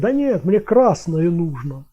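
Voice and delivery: slow, drawn-out mock explaining; as to the deaf. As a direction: imitate someone spelling it out for the deaf. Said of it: "как с глухими разговаривать".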